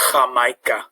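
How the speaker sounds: Jamaica said as hamaica; Spanish J as H. Shown as a demonstration. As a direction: Jamaica with a breathy H start. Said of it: "it's got the H sound".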